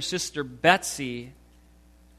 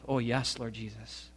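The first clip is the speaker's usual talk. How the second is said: reluctant prayer; 4 semitones lower, 11 dB quieter than usual. A narrator's reading. Grudging prayer.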